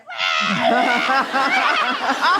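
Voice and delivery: high mock squeal; mock drunken squeal. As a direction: imitate drunk friends squealing. Imitates the drunk friends' noise.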